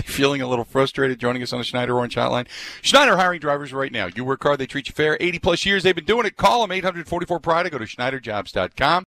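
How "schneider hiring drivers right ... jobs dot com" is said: punchy sponsor read on a sports show; radio ad read. Real, not acted. Host pitching Schneider driving jobs to listeners, ad read. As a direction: sell it briskly to the listeners.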